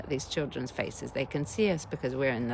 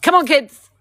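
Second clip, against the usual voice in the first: high, loud cheery shout; bright call; 13 semitones higher, 15 dB louder than usual. Acted. Therapist mocking one quick invite: high, loud cheery shout. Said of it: "one little invite".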